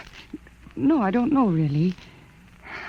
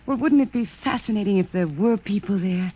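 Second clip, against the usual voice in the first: emotional wailing; 3 semitones higher than usual. Acted. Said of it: "You know I hate this emotional wailing".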